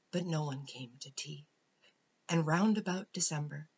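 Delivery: animated, emphatic storybook poem reading; poem recital. A narrator's reading. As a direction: read the children's poem out with measured, lilting phrasing. Reads a children's poem aloud.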